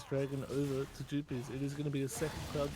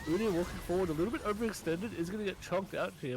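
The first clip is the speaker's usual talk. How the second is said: excited play-by-play; 4 semitones higher than usual. Real, not acted. Hyped esports play-by-play call.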